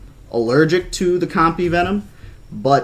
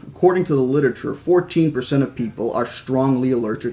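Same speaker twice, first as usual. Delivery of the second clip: measured audiobook-style reading; story narration. A narrator's reading. Reading a novel about an injured girl to listeners, story narration. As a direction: read the story aloud with lightly voiced dialogue.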